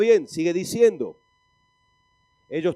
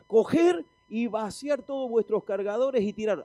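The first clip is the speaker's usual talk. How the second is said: a hint of a general giving orders; lightly voiced general; 4 semitones higher than usual. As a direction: give the order as a mock general. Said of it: "viene el general y dice".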